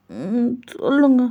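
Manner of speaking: put-on childlike. A singer's voice.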